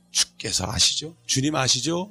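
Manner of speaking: soft, slow appeal to God; model prayer. Shown as a demonstration. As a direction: ask the Lord quietly, drawing it out. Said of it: "이렇게 하면 기도가". (나직하게 기도하듯)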